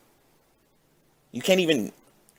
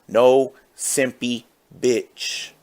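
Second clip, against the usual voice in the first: Scott Steiner quote; much slower than usual. Retold or imitated. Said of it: "as our creator Scott Steiner once said".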